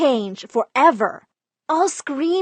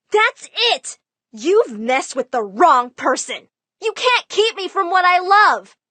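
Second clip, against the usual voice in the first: defiant outburst; 7 semitones higher, 4 dB louder than usual. Retold or imitated. Defiant outburst after dad smashes stuff.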